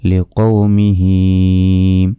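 লিকৌমিহি with the final হি stretched for three seconds; slow, drawn-out লিকৌমিহি; hi held three seconds. Shown as a demonstration. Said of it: "হি এখানে তিন second টেনে পড়তে হবে". (লিকৌমিহি, শেষের হি তিন second টেনে)

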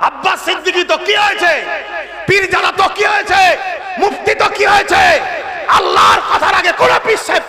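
high, loud repeated challenge; shouted rhetorical question. Acted. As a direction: hurl each line at the crowd.

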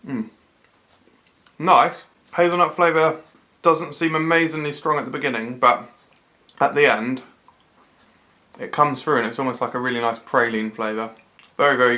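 licking spoon between words; tasting from a spoon. Real, not acted. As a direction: mouth sticky with spread. Seen 0: Holds spoon throughout, licks and tastes spread at 7.2 and 11.0.

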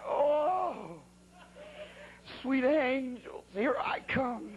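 a man sure he is about to die calling out; strained wailing prayer mid-crash; terrified cry. Retold or imitated. Retold crash, crying out in terror.

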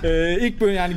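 giggling through the words; trying not to laugh; stifled giggles. Real, not acted. Laughing while explaining no-laugh rule.

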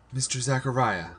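high, mildly weary address; a touch of weary exasperation. A narrator's reading. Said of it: "I said with increasing weariness".

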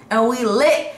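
high, loud party sign-off; hype outro. Real, not acted. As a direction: send them off with party energy. Hyped vlog sign-off.

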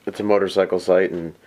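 muffled through a full-face helmet; inside a helmet. Real, not acted. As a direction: talk from inside a dirt bike helmet. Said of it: "Sorry for the dirt bike helmet".

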